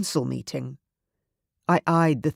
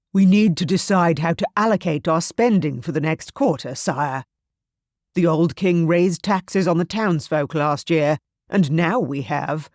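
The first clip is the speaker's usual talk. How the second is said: put-on a louder, formal old advisor; stern elder voice; 4 dB louder than usual. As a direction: speak like a stern court elder. Elder addresses the young king.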